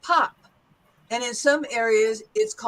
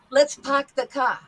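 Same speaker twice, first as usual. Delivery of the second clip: r-less "park" and "car", New York style; New York accent. Shown as a demonstration. Teacher contrasts it for students, New York accent. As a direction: say it like a New Yorker, dropping r's. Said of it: "go back to the New York accent".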